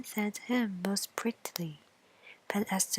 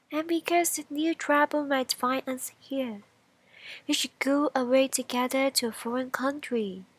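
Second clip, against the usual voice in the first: lightly raised bean voice; slightly higher bean voice; bean character; 4 semitones higher than usual. Acted. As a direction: propose the plan as the bean. Bean voiced in fairy tale.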